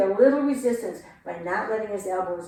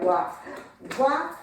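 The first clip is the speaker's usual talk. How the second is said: drawn-out count; 3 dB louder, much slower than usual. Shown as a demonstration. Teacher counting again, slow and louder. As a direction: stay right there very slow and louder. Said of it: "counting dance steps".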